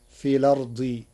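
الأرض said as lerdi, vowel moved onto the lam; hamza dropped. Shown as a demonstration. Teacher demonstrating Warsh, الأرض without the hamza. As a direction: say في الأرض as fi lardi. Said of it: "بنقل حركة الهمز".

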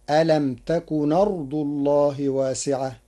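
ألم تكن with the hamza dropped and its vowel moved to the prior consonant; vowel carried over. Shown as a demonstration. Teacher demonstrating the Warsh transfer of hamza, smooth join. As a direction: join تكن أرض as takuna rḍ. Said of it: "بنقل حركة الهمز إلى الساكن".

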